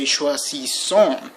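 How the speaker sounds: "choisissons" ending on a nasal on, no final S; silent final S. Shown as a demonstration. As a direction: say "choisissons" as shwa-zee-son with a silent last S. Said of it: "don't pronounce the final S".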